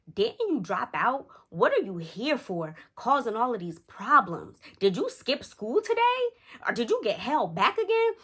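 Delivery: mocking heckle from the crowd; retold yell. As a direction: shout the taunts across the lobby. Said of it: "he yells out".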